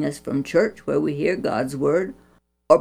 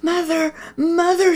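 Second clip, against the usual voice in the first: hoarse whisper; 11 semitones higher than usual. A narrator's reading. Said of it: "she called in a hoarse whisper".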